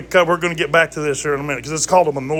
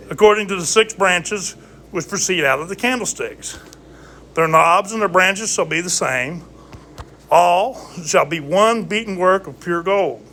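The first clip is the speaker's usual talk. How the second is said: scripture reading; 3 semitones higher than usual. Acted. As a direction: read the verse like scripture. Reads scripture aloud.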